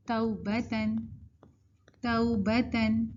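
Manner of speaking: توبتن as tau-ba-tan, gliding from a to u; correct leen. Shown as a demonstration. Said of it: "لین کی صفت add کر رہے ہیں".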